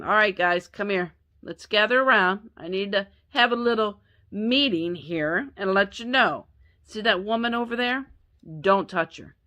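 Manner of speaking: a half-joking protective boss rallying the crew; protective Boaz. Retold or imitated. Boaz telling his workers to leave Ruth alone, mock stern. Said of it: "I mean, I can see him".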